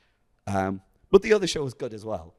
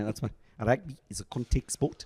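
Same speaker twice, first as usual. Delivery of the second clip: South African accent; 3 semitones higher than usual. Shown as a demonstration. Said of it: "my South African accent, uh, goes like this".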